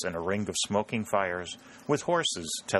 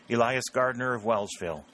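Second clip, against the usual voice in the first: lightly drawled country farmer, a touch higher; drawling rural voice; 4 semitones higher than usual. Acted. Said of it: "in a drawling rural voice".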